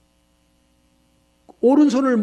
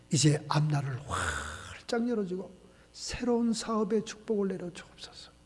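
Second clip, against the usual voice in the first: blessing prayer. Acted.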